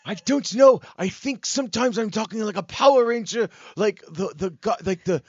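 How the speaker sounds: high, loud British-American put-on voice; Yeti-like comic character voice; Connor. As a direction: hunt for words in a cartoonish accent. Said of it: "I'm trying to do Connor's voice".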